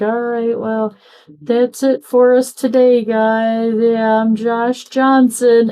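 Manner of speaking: a hint of a podcast host wrapping up; Josh Johnson. Retelling the podcast sign-off.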